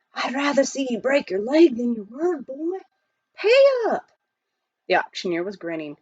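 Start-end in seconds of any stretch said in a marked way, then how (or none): 0.1-4.1 stern miner. A narrator's reading. Billy telling Jack to pay up, stern miner voice. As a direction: insist he keep his word.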